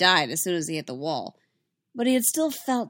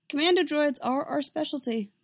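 gracious; 8 semitones higher than usual. A narrator's reading. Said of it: "Anakin said graciously".

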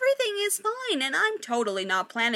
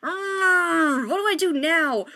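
unsure Victoria; 7 semitones higher, 6 dB louder, slower than usual. Acted. Victoria stuck, voiced.

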